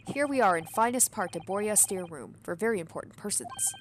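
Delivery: a lightly voiced broken-English sailor; hint of a burly foreign sailor; gruff sailor. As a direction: play a proud, touchy ship's crewman. Sailor boasts about first-class area.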